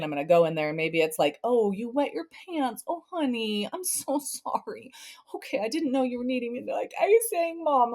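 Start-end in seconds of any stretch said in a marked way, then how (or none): 1.4-6.6 tender comfort. Retold or imitated. Mom comforting child. 7.0-7.9 put-on higher whiny child voice; child complaining.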